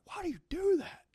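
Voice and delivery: high, loud mock whine; mocking question. Mocking the stuttering kid in a high loud whine. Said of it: "We'd be like".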